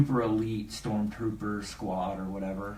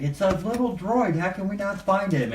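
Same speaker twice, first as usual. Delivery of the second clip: high-pitched mock panic; mock freaking out; 9 semitones higher than usual. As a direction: imitate flustered pursuers, voice pitched up. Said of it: "they're, like, freaking out".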